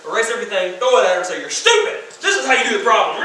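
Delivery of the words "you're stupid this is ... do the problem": hammed-up rude student shouting; mock angry yell. Student yelling at teacher.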